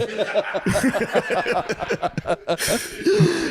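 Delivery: high laughing fit. Real, not acted. Cracking up at the bit.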